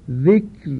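ذکر with fine ر at the pause; recited example. Shown as a demonstration. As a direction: stop on ذکر lightly.

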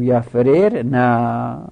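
slow یفرر نه with kasra on the first r, yafrirna; careful demo. Shown as a demonstration. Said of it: "اینجوری بگو".

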